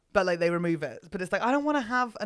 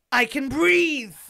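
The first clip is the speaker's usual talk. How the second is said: relieved; 5 semitones higher, 7 dB louder, much slower than usual. Retold or imitated. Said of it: "then they're like".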